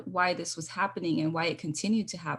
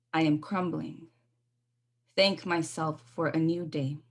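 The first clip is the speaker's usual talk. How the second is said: poetry recital. Acted. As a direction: let each line land, then breathe. Poet recites her poem.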